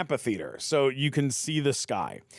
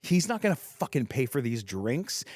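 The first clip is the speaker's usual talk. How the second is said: higher, whining mock-angry girl; lightly voiced exasperated friend; retold angry girl; 4 semitones higher than usual. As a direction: complain bitterly, rising to a whine. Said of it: "the other girl goes".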